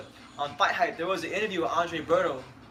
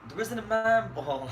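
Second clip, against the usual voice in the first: lightly voiced boxer boast, drawn out and raised; Tyson Fury; 4 semitones higher, slower than usual. Host answers a request for a boxer impression, drawn-out boast. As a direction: stretch it out, higher, like a boasting fighter. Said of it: "they want a Tyson Fury impression".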